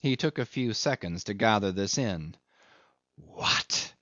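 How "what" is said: squeal. A narrator's reading. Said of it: "he fairly squealed".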